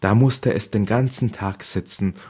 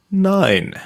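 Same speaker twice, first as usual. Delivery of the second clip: a much higher, louder scoffing no; scornful no; 12 semitones higher, 4 dB louder than usual. A narrator's reading. Eldest sister scoffing at Cinderella, high and loud. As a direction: cut her off with a sharp scoff. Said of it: "sagte die Älteste".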